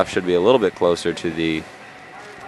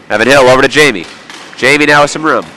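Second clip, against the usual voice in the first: excited play-by-play; 4 semitones higher, 4 dB louder, much faster than usual. Real, not acted. Live hockey play-by-play.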